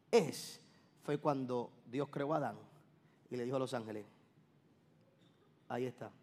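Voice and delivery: quiet, intimate preaching voice; hushed preaching. Real, not acted. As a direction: draw the congregation in with a low hush. Preacher drops to hushed intensity.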